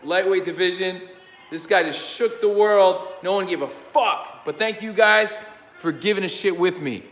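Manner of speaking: excited. Real, not acted. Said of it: "I'm shocked".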